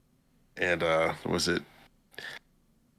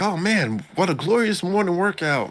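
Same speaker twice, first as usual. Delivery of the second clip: quoting Koenjin; 11 semitones higher than usual. Retold or imitated. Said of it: "he's like".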